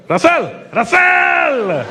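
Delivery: put-on a fan calling out high and slow in an Indian accent; an excited Indian fan hailing him across the street in an Indian accent; Indian accent shout. Indian fan on the street calls to comedian, thick Indian accent. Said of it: "every time I did the Indian accent".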